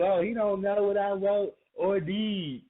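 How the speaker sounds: slow, whiny mock girlfriend voice; hammed-up complaining wife; mocking complaining woman. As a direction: put on a sulky partner griping. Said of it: "you gotta say it like that".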